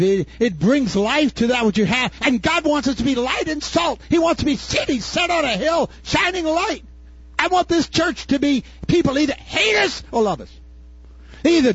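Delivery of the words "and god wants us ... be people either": high, ringing sermon cry; full-force pulpit preaching. Acted. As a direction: lift it up like a preacher on fire.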